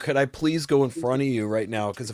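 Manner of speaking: acted-out pleading. Retelling asking the man ahead in line to let them go first, acting out pleading. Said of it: "I was basically trying to plead with him".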